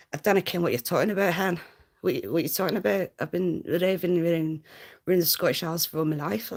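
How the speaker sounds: put-on a loud, rushed go at a Scottish accent, half-laughing at it; fast, loud mock-Scottish ranting; failed Scottish accent. Streamer answering chat in a botched Scottish accent. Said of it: "I can't even do it".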